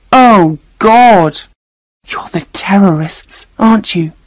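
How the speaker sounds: horrified, hushed realisation with a breathy edge; gasped half-whisper of shock; whispered accusation. A narrator's reading. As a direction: half-whisper it in dawning horror. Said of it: "she whispered".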